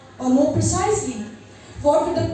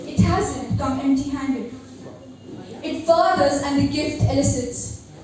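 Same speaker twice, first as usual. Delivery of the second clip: poem recitation. Acted. Recites her poem Metanoia.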